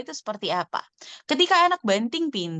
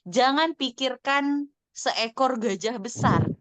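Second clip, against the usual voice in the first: slow demo; slower than usual. Shown as a demonstration. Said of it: "Misalnya saya bilang".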